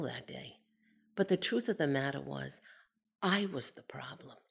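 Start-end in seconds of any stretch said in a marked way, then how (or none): 3.2-4.4 soft confessional whisper. Real, not acted. Admitting to listeners she was the problem, whispered. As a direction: breathe it out as a quiet admission. Confessing her own prejudice.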